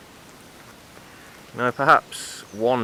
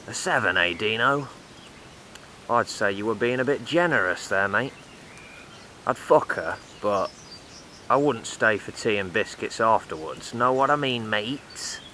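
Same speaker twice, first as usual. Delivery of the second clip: put-on crude older builder. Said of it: "talking like this".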